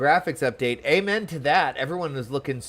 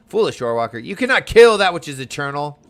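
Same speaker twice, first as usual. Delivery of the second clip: lightly voiced grand villain, louder; dramatic villain line; 9 dB louder than usual. Streamer reading a game villain's line aloud, lightly dramatic. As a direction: read it with a hint of booming menace.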